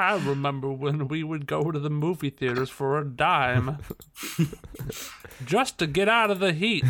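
lightly voiced old-timer reminiscing; a hint of a rambling grandpa. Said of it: "I could hear that in a grandpa's voice".

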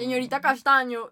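slow, drawn-out mock teacher voice; lightly hammed-up teacher calling on a student; mocking teacher imitation. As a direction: stretch out the name like the teacher did. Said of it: "pero hablaba así como".

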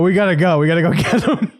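mock-urgent call to get moving; urgent urging. Storyteller urges brother-in-law to go find dad, retold urgency.

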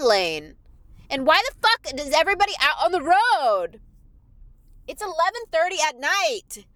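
road rage rant. Real, not acted. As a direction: vent at the cars around you.

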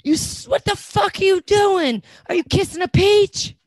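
mocking cast member. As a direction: ham up her shocked ranting.

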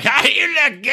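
flirty imitation. Angela quoted flirting with doctor.

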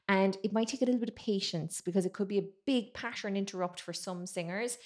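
normal talking voice

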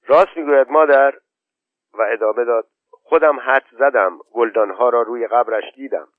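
put-on a boy holding back tears; asking through tears. Khosrow asks his mother through tears if it is true. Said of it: "از میان اشک پرسید".

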